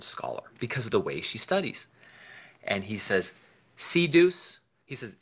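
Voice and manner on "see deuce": eager exclamation. Retold or imitated. Steve showing off his wife.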